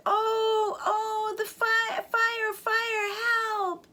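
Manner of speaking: high, stammering plea about the fire; a frightened little bird crying out; scared chick. Acted.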